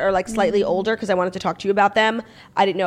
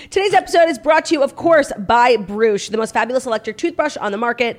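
loud, upbeat sponsor announcement; ad read; 4 dB louder than usual. Acted. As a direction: pitch it like a host. Ad read opener.

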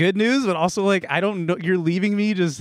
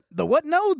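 frat bro; 12 semitones higher than usual. Retold or imitated. Bro doctor mishears.

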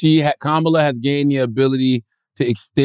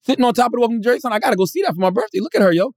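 high, fast excited rush; higher and quicker, thrilled; excited gushing; 8 semitones higher, faster than usual. Retold or imitated. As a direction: gush like a fan spotting a hero. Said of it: "I was like".

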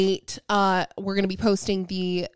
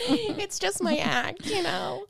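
laughing; 10 semitones higher, 3 dB quieter, slower than usual. Real, not acted. Joking about being an airhead.

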